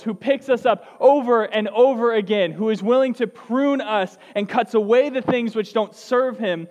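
slow, building preacher's call; rising preaching. Acted. Pastor rallying the church, slow and building. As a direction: build it up to the congregation.

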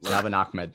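"Ahmed" pronounced Ak-med, K sounded. Real, not acted. Host insisting on his pronunciation, "Ahmed" with a K. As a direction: keep the K in the middle of "Ahmed". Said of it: "there's a K sound".

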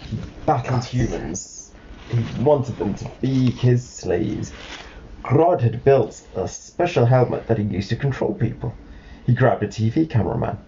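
measured, clearly spaced read-aloud; storybook narration. Acted. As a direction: set out the villain's plot for a child. Reads a storybook to child.

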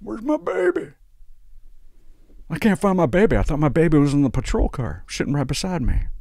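put-on drunk mom wail. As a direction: wail like a sloppy drunk mother. Drunk mom voiced again.

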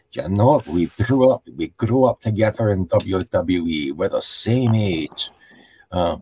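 lightly voiced, badly faked wrestler's promo voice; half-hearted imitation of a wrestler talking to an old friend; bad Drew McIntyre impersonation. Podcaster retelling a wrestler's promo to Cody, badly impersonated. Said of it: "I'm doing a bad Drew McIntyre impersonation".

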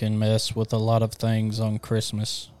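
slow, flat, lifeless line; monotone voice. Shown as a demonstration. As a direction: read it dead flat and slow. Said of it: "the monotone Christmas line game".

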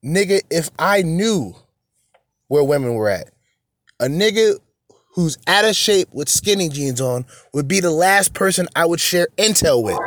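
heated rant. Real, not acted.

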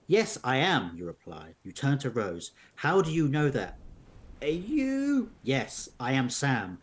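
measured storybook narration; narrating an unfolding mystery tale; story narration. A narrator's reading. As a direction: read the adventure aloud to listeners. Reads story with dialogue.

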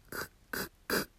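く、く、く as a silent, breathless click of K; bare K consonant. Shown as a demonstration. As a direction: repeat く on the consonant alone, no voice. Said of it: "Kの子音は".

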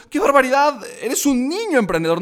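high, loud astonished outburst; amazed exclamation. Retold or imitated. Mentor amazed the organizer is a kid, astonished.

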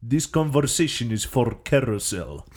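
put-on Russian accent; hammed-up Russian accent for a bit. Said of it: "That's my Russian accent".

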